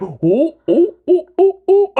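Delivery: string of high, loud oohs; high mock oohs. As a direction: hoot it up high like a caught-out culprit. His reaction to being scolded.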